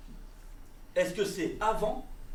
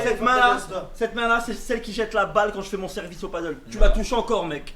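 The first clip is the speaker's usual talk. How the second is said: angry; 7 dB louder than usual. Pretend. Angry threat over hand.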